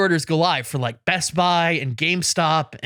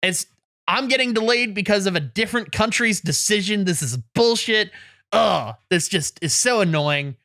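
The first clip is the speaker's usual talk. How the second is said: mildly exasperated, pitched up a touch; retold annoyance; 3 semitones higher than usual. Griping at delayed Switch pre-orders, mock exasperated. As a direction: act out a griping little rant. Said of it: "I'm so annoyed".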